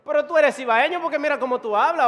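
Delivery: loud, high teasing accusation; local spotting an accent. Acted. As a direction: call someone out on their origins. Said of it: "como en nuestro país cuando dice".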